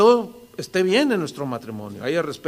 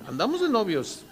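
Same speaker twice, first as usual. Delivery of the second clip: laughing; 3 semitones higher, 4 dB quieter than usual. Retold or imitated. Quoting wife's playful boast.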